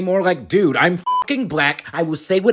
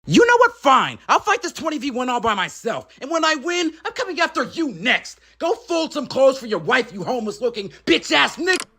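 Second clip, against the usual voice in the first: a hint of a higher, cocky rapper voice building to anger; lightly voiced rapper; 6 semitones higher than usual. Plays a rival rapper throughout.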